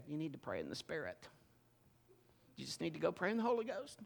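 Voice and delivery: a light, quiet mock-pious wife voice; hint of a churchy wife urging prayer; imitating wife. Husband imitating his wife's pious advice, softly mocking. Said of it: "She doesn't really talk like that, but it's for effect".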